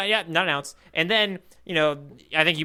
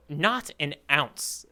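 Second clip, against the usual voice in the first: quoting Kuro; much slower than usual. Retold or imitated. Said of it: "the words that Captain Kuro uses".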